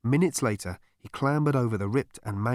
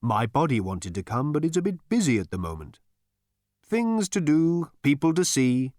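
airy voice lifting higher; Gargravar; 5 semitones higher than usual. A narrator's reading. Voice excusing its absent body, airy. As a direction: drift upward, drawing out the ending.

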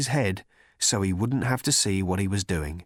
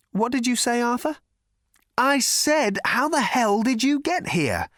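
shouting over noise; 13 semitones higher than usual. A narrator's reading. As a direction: shout above the crowd. Arthur shouts over party.

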